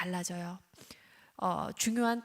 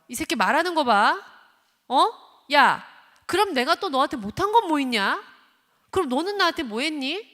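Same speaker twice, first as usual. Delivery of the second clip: angry parent; 5 semitones higher, 9 dB louder than usual. Retold or imitated. Parent scolds back at child.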